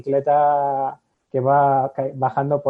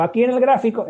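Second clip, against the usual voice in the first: lecturer voice; 9 semitones higher, 7 dB louder than usual. Retold or imitated. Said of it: "Y digo".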